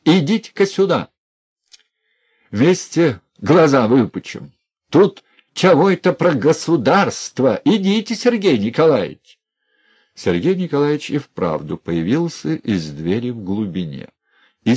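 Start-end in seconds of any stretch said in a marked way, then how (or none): 0.1-9.4 loud, high, vengeful jeer; loud gloating mockery; gloating shout. A narrator's reading. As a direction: taunt with spiteful glee. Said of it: "с мстительным злорадным чувством говорил Князев".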